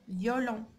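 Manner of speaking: "فيولون" low, with a clear "yo" glide; pronunciation demo. Shown as a demonstration. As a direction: model "فيولون" as "vyo-lon", word by word. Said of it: "يعني ننطقوها إيون".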